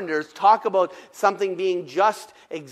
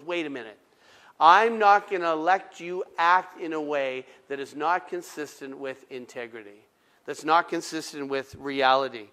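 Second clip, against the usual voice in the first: God speaking; 4 semitones lower than usual. Retold or imitated. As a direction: lower and hush it like God stepping in. God voiced, low and quiet.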